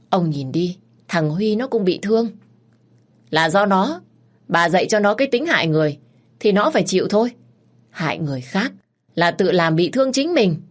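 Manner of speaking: a mother bristling in her son's defence, voice up; indignant accusation. Acted. Hai Tình accuses the lord's wife.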